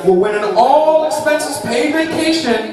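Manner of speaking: grand prize read with laughs; booming prize announcer. Acted. Game show prize read.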